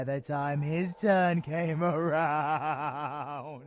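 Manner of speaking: slow words through a cruel laugh; villain laughing at the boy's death. Acted. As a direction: laugh as it lands. Laughs while telling.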